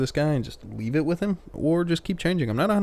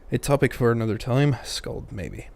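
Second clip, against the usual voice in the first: badly faked Irish accent; terrible Irish accent. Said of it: "I said that with an Irish accent".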